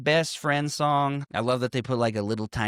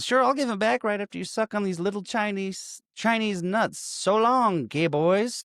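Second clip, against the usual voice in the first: higher-pitched mock taunt; a teasing, singled-out send-off in a raised voice; 8 semitones higher than usual. Podcaster retelling a movie villain's crude farewell, mock taunting.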